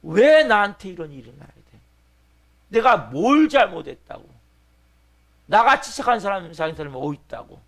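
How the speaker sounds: acted outrage, loud with soaring stressed words; indignant, loud "why me" outburst; angry protest. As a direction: cry out at the injustice of it. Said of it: "막 분노하는 거죠".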